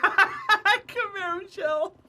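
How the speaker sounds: stretched, high, giggling name; laughing drawl. Real, not acted. Teasing Camaro Shell, slow and laughing. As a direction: drag the name out while laughing.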